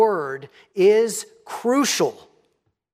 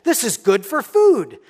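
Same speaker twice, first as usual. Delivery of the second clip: the woman's practical thinking; 4 dB louder than usual. Retold or imitated. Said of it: "First, practical".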